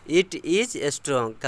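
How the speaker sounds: "it is strong" stretched out, slow; slow model reading. Shown as a demonstration. Teacher reading the English answer slowly to students. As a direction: say each word slowly for students to copy. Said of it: "teacher models sentence slowly".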